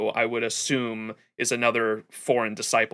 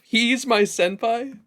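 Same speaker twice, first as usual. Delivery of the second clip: high, drawn-out incredulous question; lightly acted, slow and pitched up in disbelief; Jalter; 9 semitones higher, much slower than usual. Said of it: "the Jalter line of".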